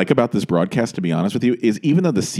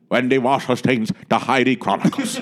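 lightly done solemn presenter; solemn award-show introduction; serious actress voice. Retold or imitated. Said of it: "Colleen Dewhurst would come out and be like".

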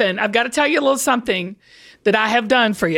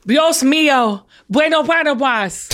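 attempted Spanish accent. Shown as a demonstration. Copying co-host's Spanish phrase, attempted Spanish accent. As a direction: copy the Spanish accent, stumbling over words. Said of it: "nailing this accent".

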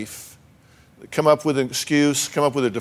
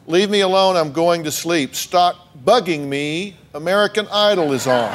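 lightly hammed-up brush-off; mock irritated; 3 semitones higher than usual. Host reading husband's excuses to audience, mock irritated. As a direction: act out a fed-up excuse, slightly raised.

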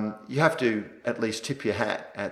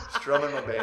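wild rambling cackles; 5 semitones higher than usual. Acted. Playing old man on porch.

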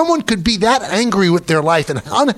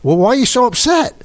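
mock innocent concern; 3 semitones higher than usual. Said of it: "I said".

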